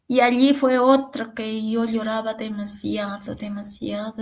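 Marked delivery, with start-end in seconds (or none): 1.3-4.2 barely voiced, almost a whisper; hushed telling. Real, not acted. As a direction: let the words fall to a whisper as the memory weighs on you. Tells how she cried for her son.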